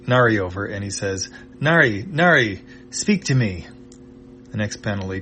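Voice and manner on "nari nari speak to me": worried call. Acted. Chippu calls to unconscious Nari.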